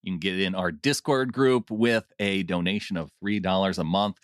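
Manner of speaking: hammed-up seventies radio DJ read; lightly voiced old-school DJ plugging the Patreon; radio DJ accent. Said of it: "I don't know what that accent was".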